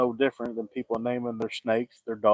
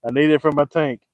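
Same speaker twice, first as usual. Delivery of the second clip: teasing mimic; 3 semitones higher, 5 dB louder than usual. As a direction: poke fun at the old head. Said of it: "There he goes again".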